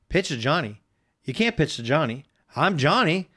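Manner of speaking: lightly voiced protesting kid, rising on the last words; mild disbelief as the young player; doubting kid. Host retells the kid's huddle protest to co-host, mildly incredulous. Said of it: "he sits there and he's like".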